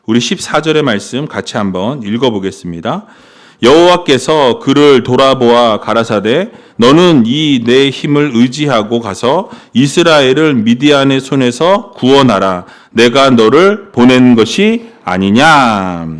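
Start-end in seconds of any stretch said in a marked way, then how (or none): 3.6-12.6 lightly intoned Bible reading; scripture reading. Acted. Pastor reading the verse to the congregation, measured. 12.9-16.1 slow, even reading of 너를 보낸 것이 아니냐; scripture reading. Shown as a demonstration. Pastor reads God's words to Gideon slowly, as scripture. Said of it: "하나님은 다시 말씀해 주셨다".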